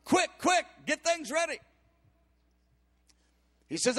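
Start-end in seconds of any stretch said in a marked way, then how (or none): 0.1-1.6 urgent hurry. Acted. Jesse hurrying the household for the prophet, urgent. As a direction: rush the servants along.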